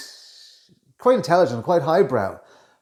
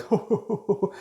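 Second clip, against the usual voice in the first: fake laugh; 7 semitones higher, 3 dB quieter than usual. Shown as a demonstration. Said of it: "when you fake a laugh".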